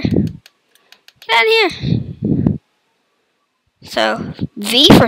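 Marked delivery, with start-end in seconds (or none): 0.0-2.6 drawn-out whisper. Acted. Same words, drawn out voice.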